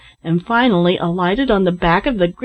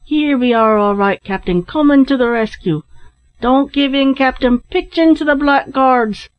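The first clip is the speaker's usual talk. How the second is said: raised, rallying call; yell; 5 semitones higher than usual. A narrator's reading. Larry rushes to rescue the captain, yelling. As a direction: call out encouragement as help arrives. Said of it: "yelled Larry in reply".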